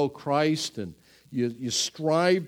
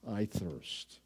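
hushed; 10 semitones lower, 13 dB quieter than usual. Acted. Quoting Jesus on cross, hushed.

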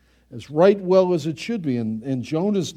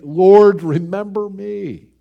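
thief's plea; 2 semitones higher, 7 dB louder, slower than usual. Retold or imitated. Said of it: "Like the penitent thief".

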